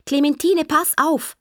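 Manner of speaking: high-pitched teacher's scolding; nagging teacher. Retold or imitated. Child quotes Frau Nagel's endless warning, high and nagging. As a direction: imitate the teacher's constant reprimand. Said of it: "sagt Frau Nagel sicher hundertmal".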